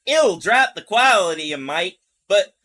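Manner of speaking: put-on botched Southern accent; Southern woman accent. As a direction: attempt a Southern woman's voice and miss. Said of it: "I have to say it in her voice".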